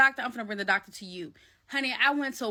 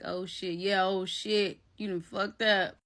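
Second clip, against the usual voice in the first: imagined cat's voice; 4 semitones lower than usual. Retold or imitated. Cat sitting there after the fight, low imagined voice. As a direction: voice the cat's thoughts, pitched down. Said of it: "she just sitting there looking like".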